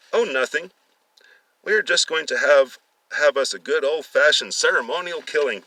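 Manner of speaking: high, loud mock-cheerful threat; gleeful menace. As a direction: savor announcing the killing. Villain announces the killing.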